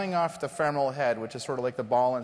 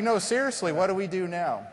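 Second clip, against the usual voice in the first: insistent surgeon; 6 semitones higher than usual. Retold or imitated. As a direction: voice the surgeon begging for help. Surgeon insists in retold story.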